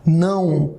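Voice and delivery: "não" said through the nose; "não" with nasal A gliding into U; nasal demonstration. Shown as a demonstration. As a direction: say "não" alone as a nasal diphthong. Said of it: "É nasal".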